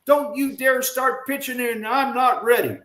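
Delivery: high, urgent retold warning; retold scream. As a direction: imitate an outfielder's scolding without full volume. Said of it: "Mays is screaming at me".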